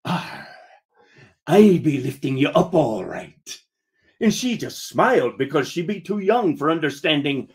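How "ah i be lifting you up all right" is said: ominous. Acted. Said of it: "real ominous like".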